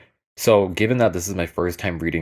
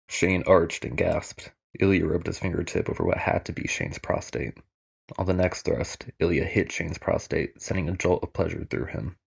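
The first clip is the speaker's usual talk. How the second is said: audiobook narrator impression; 4 dB quieter than usual. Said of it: "Let me do my best narrator impression".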